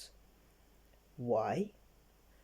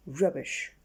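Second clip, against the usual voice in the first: snorted; 4 dB louder than usual. Acted. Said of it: "snorted little Miss Stubborn".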